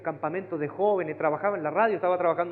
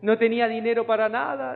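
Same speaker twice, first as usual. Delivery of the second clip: mock testimony; 4 semitones higher, 5 dB louder than usual. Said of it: "Unos testimonios así terribles".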